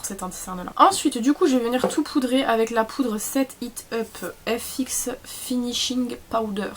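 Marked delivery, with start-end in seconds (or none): 3.2-6.7 put-on product name in a playful English accent; mock English accent from a French speaker. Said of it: "J'aime trop faire l'accent anglais".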